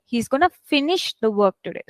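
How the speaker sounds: "finish" picked out from the sentence; stress on FINISH. Shown as a demonstration. Teacher showing main verb stress, "finish" emphasized. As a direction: put the weight on FINISH, the rest lighter. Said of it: "I'm focusing on the word finish".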